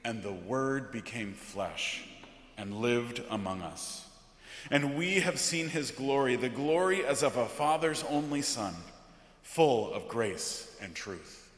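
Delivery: measured, weighty liturgical reading; solemn scripture reading. Acted. Pastor reading John's prologue from the pulpit, solemn.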